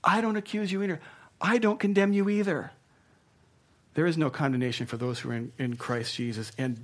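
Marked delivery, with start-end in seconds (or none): 0.0-2.7 lightly raised, gentle Savior; a hint of the Savior speaking kindly; the Savior's voice. Preacher voicing the Savior to the accused: lightly raised, gentle. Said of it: "The voice of the Savior says".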